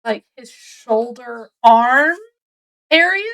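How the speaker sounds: acted uncertainty; unsure answer. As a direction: feel your way to the answer, lifting the end. Witness unsure, answers sketch artist.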